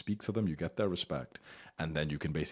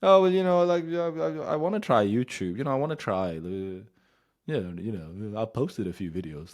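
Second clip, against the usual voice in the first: put-on timid boy hedging about YouTube; soft childish mumble; 5 semitones higher, 8 dB louder than usual. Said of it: "you speak like a fucking child".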